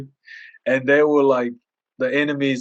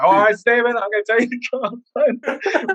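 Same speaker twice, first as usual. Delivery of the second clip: high, loud, then very slow warning; fed-up teacher; 10 semitones higher, 3 dB louder, slower than usual. Retold or imitated. Teacher warning Steven after the prank, high and slow. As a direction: stretch out the threat like a teacher at his limit. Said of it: "And he's like".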